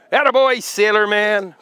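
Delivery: high happy praise. Real, not acted. Praising dog after good move.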